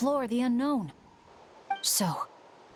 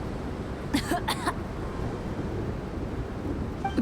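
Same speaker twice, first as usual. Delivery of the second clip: pained cough; 7 semitones higher than usual. Acted. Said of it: "my throat".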